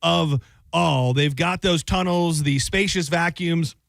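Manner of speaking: sponsor ad read. Acted. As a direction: sell the car wash like a host-read ad. Host reads sponsor ad.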